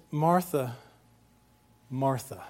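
tender name-calling, softening on the repeat; gentle endearment. Acted. Jesus answering an upset Martha, tenderly compassionate. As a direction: say it with compassion, falling gently, no scolding. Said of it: "is a term of endearment".

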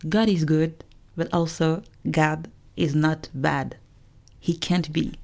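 slow deliberate English retake; switch to English. Shown as a demonstration. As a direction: say it again, slowly, in English. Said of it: "ça sonne mieux en anglais, je vais te la refaire".

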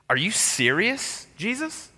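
playing the offended worker, squeaky and indignant; mock outrage. Preacher mocking the workers' complaint, high indignant whine.

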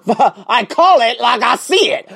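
slow, loud words broken by laughter; slow, loud, laughing admission. Real, not acted. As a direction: laugh through the line, unapologetic. Laughing at own blunt remark.

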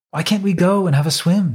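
high, carefree princess voice; playful young princess asking; cartoon princess.

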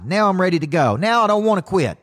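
high, eager and fired up; mock excited client; energized client voice. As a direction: play the guy suddenly pumped to go. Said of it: "Now his energy's high".

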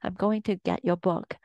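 mildly excited quote of well-wishers; excited congratulations. Retold or imitated. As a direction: lightly imitate a thrilled friend, pitch lifted at the start. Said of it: "people are so excited for me".

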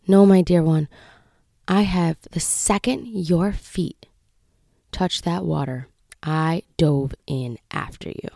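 slow, softening reassurance with long pauses; gently correct, then hush into tenderness; God's tender reply. Retold or imitated. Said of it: "where God said".

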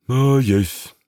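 a calm, knowing reply; scribe voice. A narrator's reading. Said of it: "answers the scribe".

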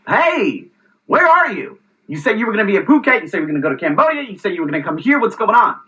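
retold exasperation, quick rising list of reminders; exasperated questioning. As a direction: press a no-show friend for answers. Retold exasperated check-up on friend.

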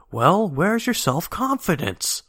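high, drawn-out cartoon yell; mock yell. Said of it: "And then Violet yells".

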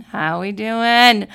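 slow loud rally call asking the crowd; drawn-out hype call. Shown as a demonstration. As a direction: call it out to the room like an emcee. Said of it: "So let's check that".

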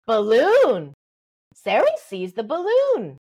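put-on slow, clear labelling of the object for a baby; name the thing the child points at, gently; naming for a toddler. Shown as a demonstration. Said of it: "you go".

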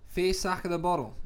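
put-on Aussie accent; casual Australian accent for show. Shown as a demonstration. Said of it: "Aussie thing in the last one".

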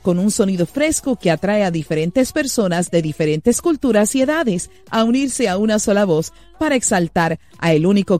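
smooth announcer read over music; radio intro read. Acted. Host introducing the guest to listeners, announcer read. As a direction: present the guest like a broadcast host.

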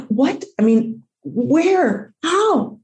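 high, baffled questioning; retold bewilderment. Dog owner baffled by a man appearing, retold astonishment. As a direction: act out disbelief, pitch jumping up. Retold shock at sudden rescuer.

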